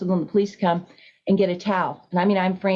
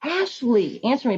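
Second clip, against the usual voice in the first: restrained re-enactment of a hysterical cry; retold hysterical scream; 5 semitones higher than usual. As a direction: plead urgently, imitating a frantic scream. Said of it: "I'm screaming".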